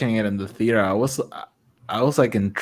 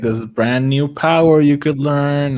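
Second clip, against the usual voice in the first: mock tempting; 3 semitones higher than usual. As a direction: dangle a secret as bait. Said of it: "He's like".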